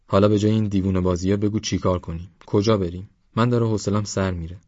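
lightly voiced bored companion, quick delivery; a touch of impatience, hurrying along; impatient Esmail.

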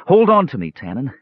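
urgent, high-pitched gasp. A narrator's reading. Palin clinging to his brother for help, gasping. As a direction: gasp it out as if struggling. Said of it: "Palin gasped".

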